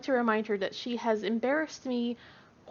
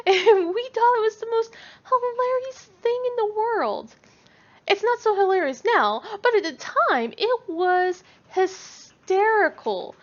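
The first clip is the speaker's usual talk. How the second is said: loud, high words through laughter; laughing while talking; 9 semitones higher, 6 dB louder than usual. Real, not acted. Mom recalling the funny moment, talking through laughter.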